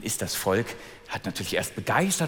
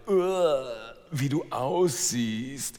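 slow, lightly voiced sneering sister; a hint of a mocking stepsister; second stepsister; 3 semitones higher, slower than usual. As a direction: drawl out the scorn like a spoiled girl. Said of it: "die zweite sagte".

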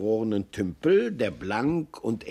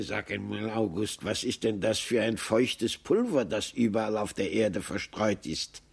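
soft, lower little questioning voice; curious marmot; 4 semitones lower, 3 dB quieter than usual. Acted. Maxel asks the squirrel about snow, a touch quieter. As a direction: ask it gently, puzzled. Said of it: "und Maxel fragte".

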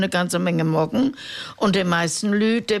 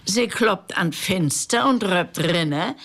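poem recital; 2 semitones higher than usual. Acted. Reading Reuter's poem to radio listeners, measured recital. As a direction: recite it like a village storyteller.

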